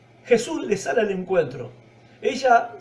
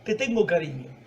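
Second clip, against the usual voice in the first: soft, low, modest admission; retold reply, quietly scaled back; humbly honest; 3 semitones lower, 5 dB quieter than usual. Pedro admits only affection to Jesús, soft and honest. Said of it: "fue más realista, más honesto".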